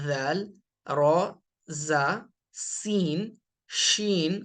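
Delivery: each Arabic letter named separately, with a pause after each; reciting letter names. Shown as a demonstration. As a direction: list the moon letters one by one. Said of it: "جو باقی حروف ہیں". (حروف قمریہ کو ایک ایک کر کے گننا)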